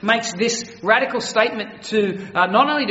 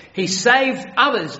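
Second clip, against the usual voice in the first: scoffing; 4 semitones higher, 4 dB louder, slower than usual. Retold or imitated. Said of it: "they scoffed".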